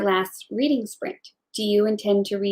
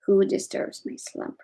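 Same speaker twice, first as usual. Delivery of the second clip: dusty mummy rasp; 3 dB quieter than usual. Acted. Sudden creature line in reading stream.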